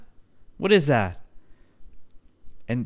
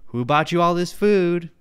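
put-on girlfriend asking; 5 semitones higher than usual. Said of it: "And she's like".

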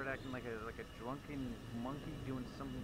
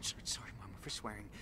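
sheepish whisper; 6 dB quieter, faster than usual. Real, not acted. Apologizes to Mama after swearing.

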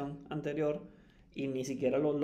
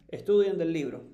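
louder, a mock command to study from the book; mock teacher order; 8 dB louder than usual. Teacher quoted telling students to study from the book, mock loud order. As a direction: bark it like a teacher brushing students off.

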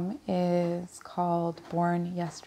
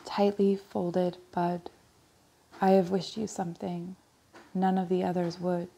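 measured, even verse reading; poem recitation. Acted. Reader reciting a poem for a newborn girl, poem recitation. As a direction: recite it phrase by phrase, pausing at line breaks. Reads a Larkin poem aloud.

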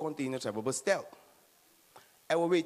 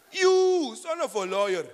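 mock insult; 5 semitones higher, 8 dB louder than usual.

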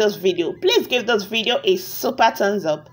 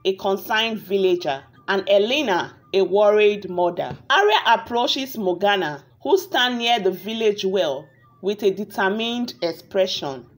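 story narration. A narrator's reading. Narrator tells viewers a tale of a wicked witch, measured storytelling. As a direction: narrate a village fairy tale, unhurried.

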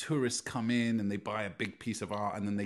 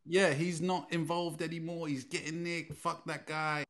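suggested reply; 4 semitones higher, 3 dB louder than usual. Pretend. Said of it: "Surely you can just say to them".

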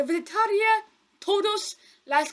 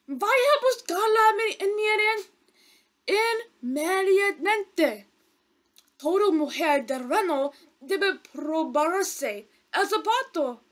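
insistent; 4 semitones higher than usual. Acted. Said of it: "insistió el mensajero".

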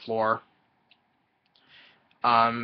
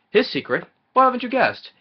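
raised, louder, theatrical butler reveal; mock dramatic reveal; 12 semitones higher, 6 dB louder than usual. Wadsworth revealing the blackmailer with mock drama. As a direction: ham up the big revelation.

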